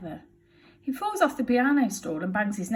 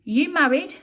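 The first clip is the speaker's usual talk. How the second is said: Betty voice; 8 semitones higher, 8 dB louder than usual. Acted. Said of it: "says Burglar Betty".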